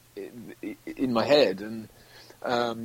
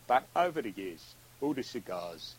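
older Cockney star impression; Michael Caine. Guest copying a comedian's routine, aged Cockney star voice. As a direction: let the star's voice sink as years pass. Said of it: "he was just like".

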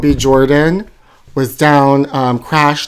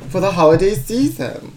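grand announcement. Acted. Oprah-style favorite things opener.

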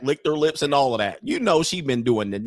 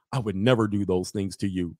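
lower, gently imitated promise; mock reassurance; 5 semitones lower than usual. Comic as nice man reassuring her, mock-tender. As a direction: play the nice guy, understated.

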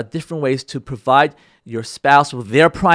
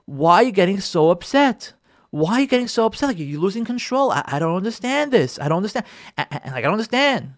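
baffled spouse; 3 semitones higher than usual. Acted. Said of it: "what you hear from your spouse".

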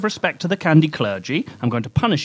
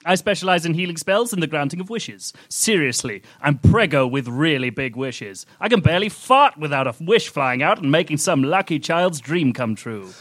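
Candy Cleric. Acted. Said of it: "I went to visit the Candy Cleric".

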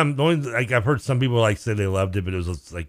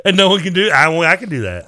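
mock grandiose; 10 semitones higher, 9 dB louder than usual. Boasting about having a cough button.

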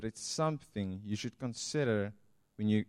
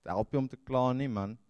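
Afrikaans saying. Retold or imitated. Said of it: "the Afrikaner says".

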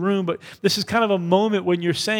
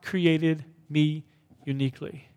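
"God created me uniquely" drawn out, fading on "uniquely"; slow recited affirmation; slow unison declaration; slower than usual. Shown as a demonstration. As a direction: lead the church line by line. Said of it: "say this with me".

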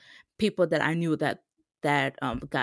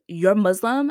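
surprised; 3 semitones higher, 9 dB louder, slower than usual. Retold or imitated. Learning uncle is Muslim.

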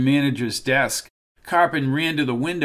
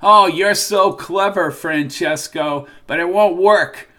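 defiant shout; 4 semitones higher, 6 dB louder than usual. Acted. Carpin defies the unseen Francesco.

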